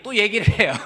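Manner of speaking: loud laughing punchline. Real, not acted. Pastor laughing to the congregation about his clever wife. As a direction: laugh through the joke.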